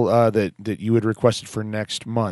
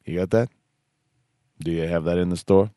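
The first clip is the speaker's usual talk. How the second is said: bookstore caller; 4 dB quieter than usual. Pretend. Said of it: "Call the bookstore locally there and be like".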